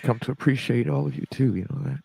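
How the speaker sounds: crying through words; tearful. Real, not acted. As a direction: voice breaking on last word. Friend crying on stream.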